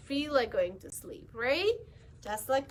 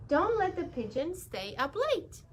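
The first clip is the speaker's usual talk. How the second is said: a touch higher, asking a favour; lightly voiced bus driver making a request; 5 semitones higher than usual.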